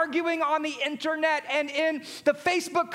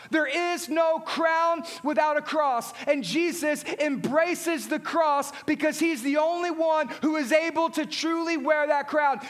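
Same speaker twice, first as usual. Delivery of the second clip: full-force preaching; 3 semitones higher than usual. Acted. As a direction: drive the refrain home to the congregation.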